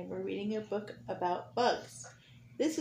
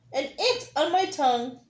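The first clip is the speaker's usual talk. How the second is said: a bit louder, excited anteater; excited shout; 5 semitones higher, 6 dB louder than usual. Acted. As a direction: call it out proudly. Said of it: "he shouted".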